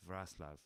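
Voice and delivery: Wrocław said as "VRAS-lav"; careful Polish pronunciation. Shown as a demonstration. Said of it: "if that was a good pronunciation".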